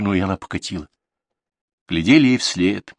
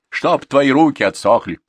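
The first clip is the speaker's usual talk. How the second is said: spiteful curse; 6 semitones higher, 7 dB louder than usual. A narrator's reading. Vasilisa curses Olga.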